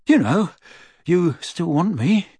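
put-on hesitant, embarrassed teen boy; awkward Ron. A narrator's reading. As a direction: trail off sheepishly.

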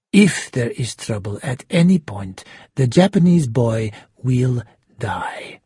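measured, controlled hostage-taker's orders; menacing shark villain. Acted. Shark dictating escape terms to Schubert, coldly menacing.

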